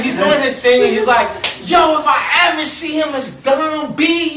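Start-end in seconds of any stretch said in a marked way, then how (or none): 1.6-4.3 higher, louder yelled bravado; imitating the friend's loud tough talk; mock threat. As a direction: shout like a big guy itching to fight. Angry friend threatening the driver.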